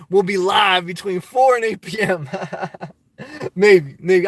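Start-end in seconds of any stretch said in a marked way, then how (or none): 2.9-4.3 laughing maybe; amused reply to a joke. Real, not acted. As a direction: chuckle through the word.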